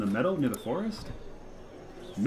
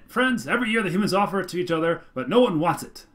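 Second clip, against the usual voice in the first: loud, high, urgent rant about fruitcake; zealous monster orator; 6 semitones higher, 7 dB louder than usual. Acted. Mopsy warning the elders, high and loud. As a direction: whip up the crowd in alarm. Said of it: "Mopsy Mora outlines a plan".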